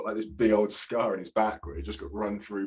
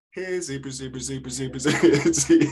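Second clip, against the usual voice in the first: friendly animal call; 2 semitones higher than usual. Pretend. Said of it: "could you just do the friendly, like".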